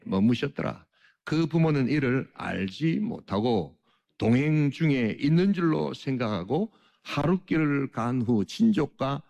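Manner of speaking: measured public reading of scripture. Acted. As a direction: read the verse aloud deliberately for a congregation. Reads the scripture aloud.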